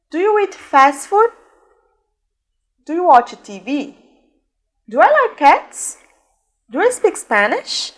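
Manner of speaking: slow, lifted questions for learners to repeat; teacher's question drill, unhurried and rising; slow model questions. Shown as a demonstration. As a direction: ask each example slowly, pitch up.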